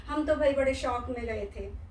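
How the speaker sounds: शौक with an open "au" vowel in place of शोक; mispronounced शोक. Retold or imitated. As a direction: say शौक with a wide "au", quoting the slip. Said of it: "शोक और शौक में अ-, अनर्थ हो जाता है".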